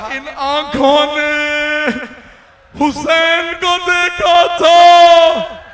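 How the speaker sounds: high, slow, full-throated cry of remorse; anguished shout. Acted. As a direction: wail it out at the top of your voice.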